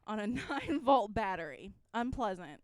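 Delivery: slow dramatic reading. Shown as a demonstration. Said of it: "reading a definition aloud".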